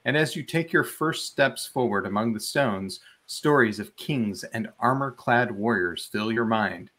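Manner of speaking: measured game master's read-aloud; story narration. A narrator's reading. Game master reads the ruins excerpt to players, story narration. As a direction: narrate the scene with clear storytelling phrasing.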